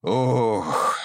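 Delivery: a heavy, weary "ох"; old man's heavy sigh. A narrator's reading. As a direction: sigh heavily, like a tired old man. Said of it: "тяжело вздохнул старик". (тяжёлый вздох старика)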